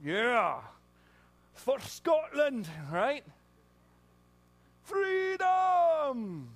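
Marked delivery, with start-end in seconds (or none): 1.6-6.5 high, drawn-out rallying yell; battle cry. Retold or imitated. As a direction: rouse the troops like a warrior.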